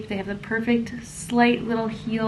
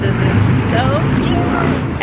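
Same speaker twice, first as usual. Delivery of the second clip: very high, slow squeal on cute; gushing cute; 8 dB louder, much slower than usual. Real, not acted. Gushing over hotel room.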